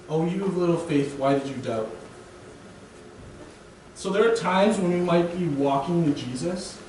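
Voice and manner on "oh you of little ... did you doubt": a gentle, loving question; tender rebuke. Shown as a demonstration. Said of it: "that's the type of faith Jesus requires".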